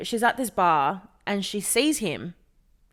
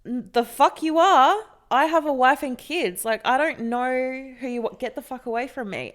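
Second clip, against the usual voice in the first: louder, higher retort; angry husband; 5 semitones higher, 4 dB louder than usual. Retold or imitated. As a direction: snap back like an annoyed married man. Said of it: "And he's like".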